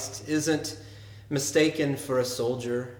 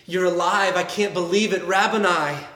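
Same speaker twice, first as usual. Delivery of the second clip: louder, rising joy bursting out; joyful cry; 4 semitones higher, 4 dB louder than usual. Acted. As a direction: cry it out as she finally believes. Pastor voices Mary's joyful recognition.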